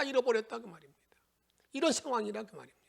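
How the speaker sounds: fast whisper; urgent hushed wrap-up. Real, not acted. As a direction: drop suddenly into a quick whisper. Whispered conclusion.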